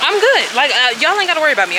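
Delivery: high, loud "I'm good"; emphatic refusal. Real, not acted. Vlogger to viewers refusing the cliff jump, high loud emphatic. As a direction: shout it up high, no way.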